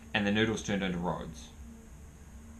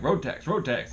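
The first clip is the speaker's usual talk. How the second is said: demanding dude; 8 semitones higher, 5 dB louder than usual. Retold or imitated. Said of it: "some dude was just like".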